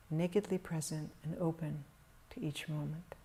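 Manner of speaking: calm, measured meditation voice with long pauses; guided meditation. Real, not acted. Teacher guiding meditators to settle into stillness, calm meditation delivery. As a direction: guide them gently into stillness, leaving long silences.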